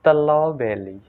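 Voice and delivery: "strawberry" said slowly as "sta-law-belly"; drawn-out "strawberry", both Rs turned to L; Thai pronunciation. Retold or imitated. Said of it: "she said it".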